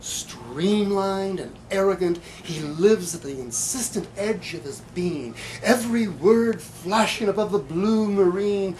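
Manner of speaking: slow, deliberate recital of another poet's poem; poetry reading. Acted. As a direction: let the images unfold slowly. Reads Frank Polite's poem.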